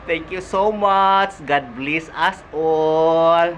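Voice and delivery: words slurred without dentures; speaking without dentures. Real, not acted. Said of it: "I forgot my dentures".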